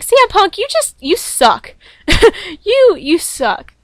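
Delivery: high, loud jeering at C M Punk; hammed-up fan jeer, pitched high; mock heckling. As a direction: heckle him like a booing Boston fan. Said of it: "I was like".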